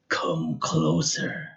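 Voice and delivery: drawn-out, coaxing dark voice; slow eerie beckoning. Acted. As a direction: lure the boy in slowly.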